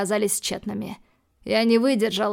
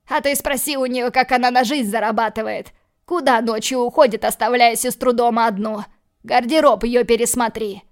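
spiteful outburst; 2 semitones higher, 5 dB louder than usual. Acted. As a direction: spit the accusations louder and louder. Dima hurls accusations at Milana.

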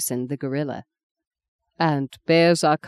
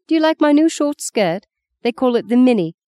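excited; 6 semitones higher, 3 dB louder than usual. Acted. Showing off new skirt.

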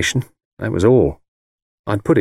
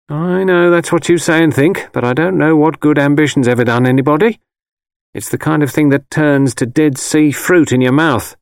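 mother's higher, insistent voice; disapproving mother; 8 semitones higher, 3 dB louder than usual. A narrator's reading. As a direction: lecture your son as his disapproving mother. Mother's voice in the story.

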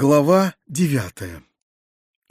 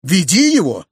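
much higher, louder orders; commanding shout; 7 semitones higher, 5 dB louder than usual. Acted. Uncle to Vidoplyasov, shouting commands. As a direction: bark orders to drag him in.

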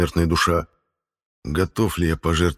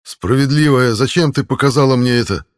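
raised, pained plea to a goddess; desperate, higher questioning cry; anguished plea; 7 semitones higher, 7 dB louder than usual. Acted. Hero pleads with the goddess.

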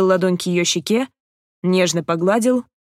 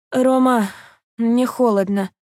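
quiet, tender; 4 semitones higher, slower than usual. A narrator's reading. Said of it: "тихим, нежным голосом".

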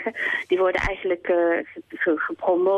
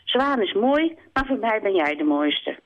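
higher, sincere hare; 3 semitones higher than usual. Acted. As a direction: tell her she's the fairest. Haas reassuring Kip.

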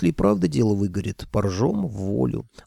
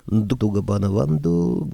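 proud. Acted. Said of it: "гордо подбоченилась Тамарка".

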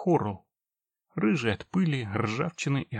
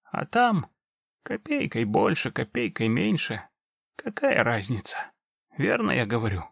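put-on very old man. Old orc grandpa speaking.

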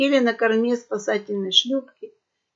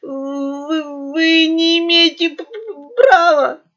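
stammering, higher and louder in panic; frightened stutter; 6 semitones higher, 6 dB louder, slower than usual. A narrator's reading. Terrified merchant protesting to the pirates, stuttering. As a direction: trip over the words in fear. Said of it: "заикаясь от страха".

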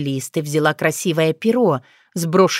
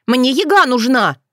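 mild anger; 6 semitones higher, 3 dB louder than usual. A narrator's reading. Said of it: "Девица с гневным стуком".

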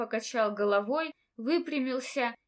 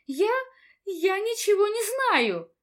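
much higher, panicked; flustered denial; 9 semitones higher, 5 dB louder than usual. A narrator's reading. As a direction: blurt it out in a frightened squeal. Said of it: "растерялась Сантина".

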